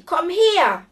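loud, high command; calling out. A narrator's reading. Knight ordering the giantess to come, loud high command. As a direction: shout it as a bold challenge. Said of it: "rief sie".

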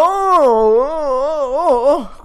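high, loud anxious oh sounds; panicked groans. Real, not acted. Gamer about to die, panicked high oh sounds. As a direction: moan in panic as health drops. Nearly dying in game.

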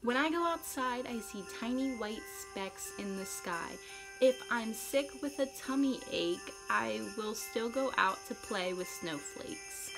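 reciting a poem. Acted. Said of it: "This poem is called Snowflakes".

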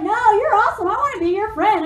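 high, emphatic mock enthusiasm; eager friend. Retelling new friend's eager reply.

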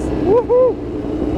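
high gleeful woohoo; joyful whoop. Real, not acted. Driver out on track, a high joyful whoop. Starting laps in the car.

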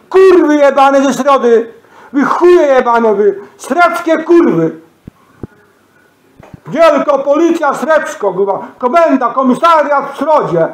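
real high, loud tirade at the police; angry shouting. Real, not acted. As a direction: yell the insults out, drawing words out. Furious rant insulting the police. (wściekły krzyk)

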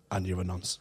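laughing punchline. Acted. Punchline of poem.

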